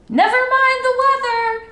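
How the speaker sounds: high, loud call from the bank; owner crying out. A narrator's reading. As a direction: shout it back across the pond. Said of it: "cried the owner".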